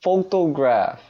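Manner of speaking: slow, careful, high sober act; forcing a sober voice, too high; trying to sound sober. Real, not acted. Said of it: "You're still trying to sound sober".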